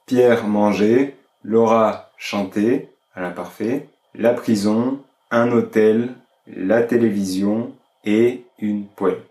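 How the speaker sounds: slow, spaced-out dictation for learners. Shown as a demonstration. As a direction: read each item deliberately, leaving time to write. Repeats the dictation.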